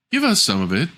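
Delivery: lightly high plea; a hint of hungry little men; dwarves asking. Dwarves ask the rude girl for food, lightly high. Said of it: "cried the little men".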